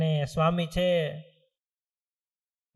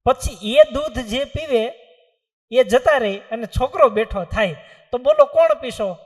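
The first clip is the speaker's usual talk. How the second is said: solemn challenge; 5 semitones higher, 9 dB louder than usual. Acted. Saint sets the grim test.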